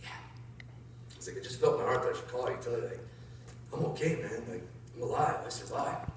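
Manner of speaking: low, softened phone conversation; retold hushed exchange. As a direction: keep it quiet and careful, retelling gently. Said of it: "gets real quiet".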